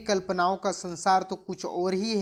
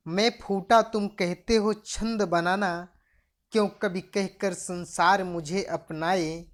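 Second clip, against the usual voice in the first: poem recitation. Acted. Teacher reciting the poem's next lines, measured poem recitation. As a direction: recite line by line with pauses.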